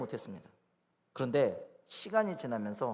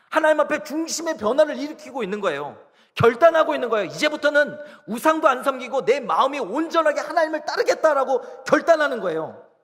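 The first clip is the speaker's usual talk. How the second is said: high, loud preaching voice; full-force preaching; 9 semitones higher, 10 dB louder than usual. Acted. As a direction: drive each point home, pitched high. (목소리를 높여 힘주어 설교하듯)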